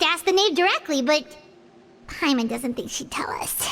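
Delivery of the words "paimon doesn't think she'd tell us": whispered aside. Acted. Doubtful aside, voice drops.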